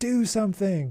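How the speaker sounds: high-pitched yell. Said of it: "I just, like, yelled".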